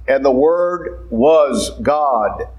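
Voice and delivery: "the Word was God" drawn out slowly with weight; emphatic. Acted. Preacher quoting the last Gospel to his congregation, slow and emphatic on "was God". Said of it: "The Holy Spirit is emphasizing something there".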